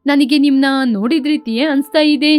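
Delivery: groom's voice. Acted. Groom thinks he has met the sister before, acted groom's voice.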